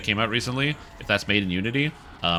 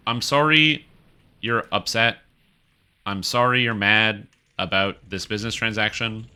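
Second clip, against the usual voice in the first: mock apology. Streamer voices the company's apology to upset developers, mock apology. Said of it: "you know what they should have done?".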